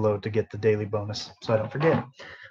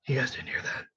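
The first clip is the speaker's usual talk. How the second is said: hushed; 9 dB quieter than usual. Real, not acted. Slip about workplace, hushing viewers.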